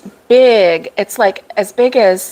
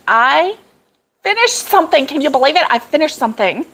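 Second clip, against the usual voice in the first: high-pitched delighted disbelief; excited; 5 semitones higher, faster than usual. Real, not acted. Speaker telling viewers she finished something, excited. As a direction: announce it excitedly, starting high and easing down. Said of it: "so excited".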